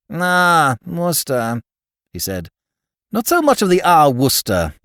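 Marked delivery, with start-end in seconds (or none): 0.1-1.6 patronizing. Acted. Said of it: "dashed patronizing manner". 3.1-4.7 mocking the greeting back, sharper and louder; brusque retort. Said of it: "I replied brusquely".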